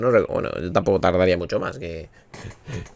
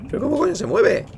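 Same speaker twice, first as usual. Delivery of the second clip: frustrated shout; 8 dB louder than usual. Real, not acted. Fighting the game controls.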